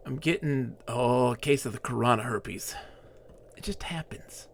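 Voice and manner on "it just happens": breathy aside whisper. Acted. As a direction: drop to a secret whisper. Aside muttered to self.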